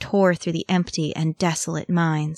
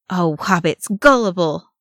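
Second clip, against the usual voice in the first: panting; 4 dB louder than usual. Acted. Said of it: "Ori panted".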